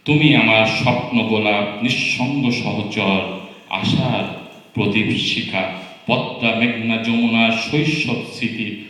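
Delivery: declaimed Bengali poem, lines set apart by pauses; poem recitation. Acted. Reading sister's Bengali poem to guests, recited.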